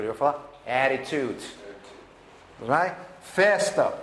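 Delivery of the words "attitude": "attitude" with the t's flapped to a quick d; American flap t. Shown as a demonstration. Teacher to students, how an American says it: flapped t. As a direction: tap the tongue once so the middle t's sound like a d. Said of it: "não esperem o americano falar attitude".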